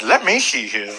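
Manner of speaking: imitated ticket clerk with cleft palate; slightly slurred clerk checking the tickets; lightly imitated speech impediment. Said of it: "he has a cleft palate".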